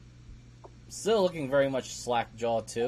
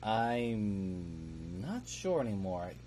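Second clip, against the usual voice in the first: put-on slurred drunk voice; 4 dB quieter than usual. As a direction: drag the words out like you're drunk. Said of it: "with the most slurred voice".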